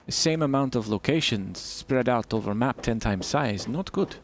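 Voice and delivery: put-on a light, generic Eastern European accent with broken English; mild put-on Eastern European accent with clipped grammar; bad Eastern European accent. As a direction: keep up a hammed-up Eastern European voice. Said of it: "Oh, bad accent time".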